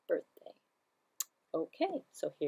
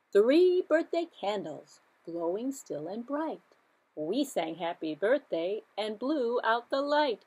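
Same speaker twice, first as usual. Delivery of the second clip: sing-song nursery rhyme; 2 semitones higher, 4 dB louder, slower than usual. Shown as a demonstration. Counting rhyme for children.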